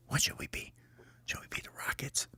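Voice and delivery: whispered huddle question; very soft, secretive whisper. Acted. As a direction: whisper a suggestion to the team. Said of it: "they go over and they whisper".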